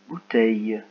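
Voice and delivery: careful repeat of the word; clear dictation repeated. Shown as a demonstration. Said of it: "C'est parti".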